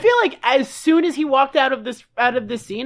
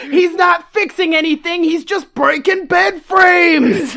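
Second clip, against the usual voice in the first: mock taunt; 3 semitones higher, 4 dB louder than usual. Acted taunting broadcast continues.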